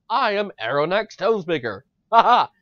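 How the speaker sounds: mock the new voice with a sneer; mocking Aronak voice. Shown as a demonstration. Gamer mocking the disliked new voice, light put-on. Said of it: "Not like this".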